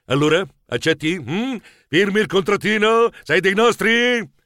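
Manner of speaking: lightly hammed-up director making a pitch; film director. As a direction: coax him into signing. Regista enfatico propone un contratto. (regista teatrale che persuade)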